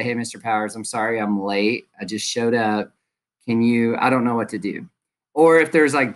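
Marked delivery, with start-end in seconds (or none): 0.0-4.9 polite student. Shown as a demonstration. Teacher demos a late student politely apologizing. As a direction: apologize gently for coming in late.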